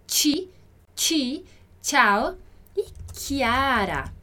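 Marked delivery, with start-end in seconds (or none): 0.1-1.4 "ti" said as "tchi", crisp and separate; som do C I. Shown as a demonstration. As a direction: say "ti" with a tch sound. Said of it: "esse nosso som do C I". ("ti" com som de tchi)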